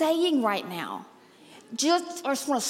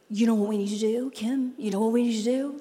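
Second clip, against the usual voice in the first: mock eager churchgoer; 4 semitones lower than usual. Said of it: "people say".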